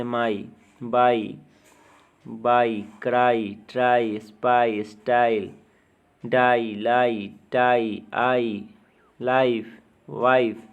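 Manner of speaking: word-list demo, आई sound drawn out in डाई, लाई. Shown as a demonstration. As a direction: say माई, बाई, क्राई with a full आई glide. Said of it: "इसका उच्चारण आई की तरह होता है". (माई, बाई में वाई को आई की तरह बोलें)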